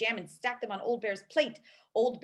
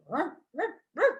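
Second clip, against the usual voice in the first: muttered bear growl; 6 semitones higher, 4 dB louder than usual. Acted. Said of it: "muttered and growled".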